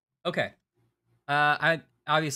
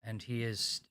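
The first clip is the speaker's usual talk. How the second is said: mock French accent; 4 semitones lower than usual. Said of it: "so fun to say Babadook in a French accent".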